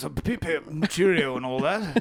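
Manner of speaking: put-on old colonel character voice, in character. Showing how the Clue sketch role will talk: Colonel Mustard voice. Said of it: "Talking like this".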